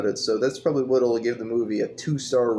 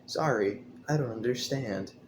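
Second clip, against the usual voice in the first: a flat, soft, machine-like assistant voice; a hint of a robotic voice assistant; Siri-like robot lady; 6 dB quieter than usual. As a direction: mimic a phone assistant, softer. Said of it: "It's like fucking Siri".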